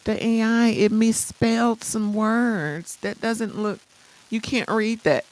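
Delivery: slow, whiny mock critic; lightly voiced nitpicker gasping at typos; mock complainer. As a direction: drag it out like a fussy naysayer. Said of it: "for all the looky-loos that say".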